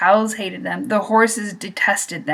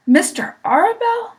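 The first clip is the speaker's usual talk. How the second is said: much higher, a sobbing cry; sobbed; 11 semitones higher, 3 dB louder than usual. A narrator's reading. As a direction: cry out the name through tears. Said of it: "sobbed Wilbur".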